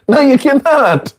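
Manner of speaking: high, firm and final; firm mock no. Teacher voicing a friend turning down a beggar, high and final. Acted refusal, continues the quote.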